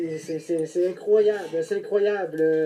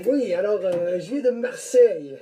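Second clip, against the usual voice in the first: French accent, more generic than Marseillais. Real, not acted. Caller tells Quebec podcasters he's from Marseille, French accent. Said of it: "plus l'accent français que l'accent marseillais".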